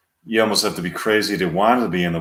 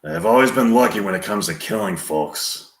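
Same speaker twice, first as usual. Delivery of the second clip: Clint Eastwood. Acted. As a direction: confide a hard past, with long pauses. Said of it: "Clint Eastwood continuing".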